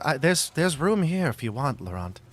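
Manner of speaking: high, lightly voiced invitation; a hint of a shy offer; inviting character voice. Esmeralda offers seat.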